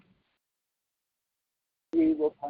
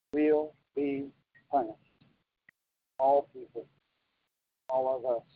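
slow, with pauses between phrases; 4 dB quieter than usual. Real, not acted. Preacher to listeners while signing, very slow. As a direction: say it slowly, phrase by phrase. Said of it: "I'm talking very slow".

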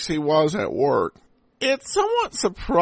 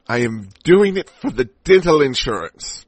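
mock hero voice; 6 dB louder than usual. Host voices the hero's motive.

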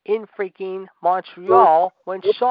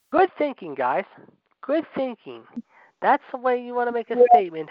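higher-pitched mock congratulations; sarcastic praise; 6 semitones higher than usual. Real, not acted. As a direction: praise them with obvious sarcasm. Sarcastic praise of rivals' attack.

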